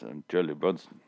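low, soft mumbled impression; Charlie Bronson. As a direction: talk low and quiet, imitating a tough actor. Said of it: "He talks like this".

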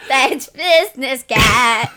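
slow shouted slogan; jingle shout. Pretend. Friend belting a made-up theme song, shouted slowly. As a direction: belt it like an ad jingle.

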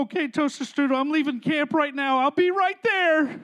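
mildly hammed-up rescuing boyfriend; giving-in boyfriend. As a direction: cave in and call out to her. Boyfriend gives in on phone.

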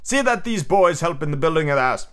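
mildly commanding captain; captainy voice. Acted. Peter telling Curly to organise the building, captainy voice. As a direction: give the order with a captain's authority. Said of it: "in his most captainy voice".

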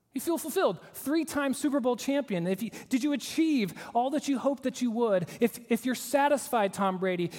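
interviewer. Acted. A hint of the interviewer asking Tom Brady, lightly voiced. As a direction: probe like a TV reporter.

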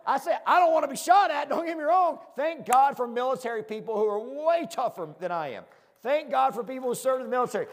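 loud, high, all fired up; real fired-up preacher energy. Real, not acted. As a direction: let the excitement burst out high and loud. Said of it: "Man, that gets me fired up".

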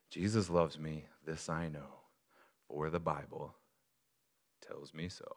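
put-on hushed spoken children's hymn, trailing off; soft murmured hymn. Pastor recalling his whispered hymn, softly. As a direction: murmur it like a private comfort. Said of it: "I would just whisper it to myself".

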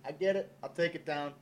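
high, fast, sheepish backpedal; a mock high-pitched climb-down; mock backing down. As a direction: squeak out a hasty apology, half joking. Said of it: "I'm like".

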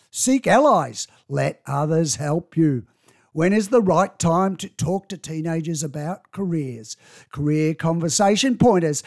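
half-hearted headline read; mild news anchor delivery; newsreader voice. Acted. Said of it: "I tried to put on a newsreader voice there".

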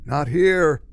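lightly croaked, full volume; mild croak, falling at the end; retold croak. Beardy stranger to the narrator, mild croak. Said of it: "The guy croaks out quietly".

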